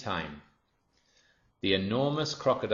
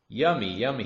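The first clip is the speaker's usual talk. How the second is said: louder, relishing crocodile voice; greedy crocodile; 4 semitones higher, 5 dB louder than usual. Acted. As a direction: crocodile gloating over the girl. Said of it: "he thought".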